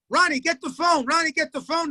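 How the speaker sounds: mock yelling for the kid to pick up; retold yell. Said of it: "they yell".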